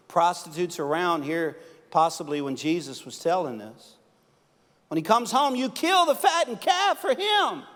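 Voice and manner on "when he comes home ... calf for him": high, loud bitter complaint of the jealous brother; resentful older son. Retold or imitated. Preacher voicing the older brother griping to his father, high and loud. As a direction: spit out the grievance like a sulking son.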